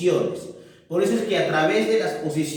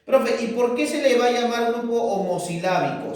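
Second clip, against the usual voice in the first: lightly voiced pupil, higher pitch; student asking; 5 semitones higher, faster than usual. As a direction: put a pupil's why-question higher. Teacher voices a student's question. (voz ligeramente aguda de alumno que pregunta)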